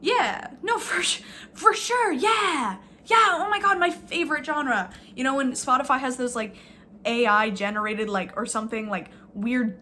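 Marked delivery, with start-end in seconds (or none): 0.0-4.9 sarcastic. Acted. Sarcastic agreement continues.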